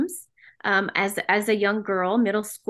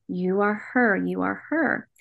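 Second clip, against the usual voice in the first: gentle, even voice, slightly lowered; calm whispering. Retold or imitated. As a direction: imitate a calm, reassuring voice without a real whisper. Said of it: "he just kept calmly whispering".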